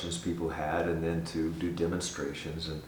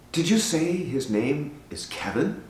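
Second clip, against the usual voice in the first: higher, slow, careful question; imitated anxious woman; 7 semitones higher, slower than usual. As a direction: retell her anxious question, measured and raised.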